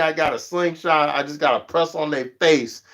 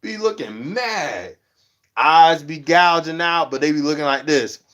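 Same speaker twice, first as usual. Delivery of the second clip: mock scolding; 2 semitones higher than usual. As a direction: tease them like a scolding friend. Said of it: "I'm like".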